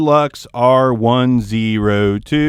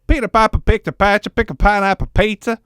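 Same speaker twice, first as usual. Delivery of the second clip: natural Alabama accent; 7 semitones higher, faster than usual. Shown as a demonstration. Reviewer drops his channel voice for a Southern Alabama accent. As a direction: let your down-home Alabama accent out. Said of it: "That's how I normally sound".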